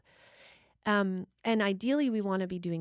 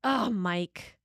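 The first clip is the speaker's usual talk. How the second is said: exasperated sigh at partner; 4 dB louder than usual. Shown as a demonstration. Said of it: "it's very different than".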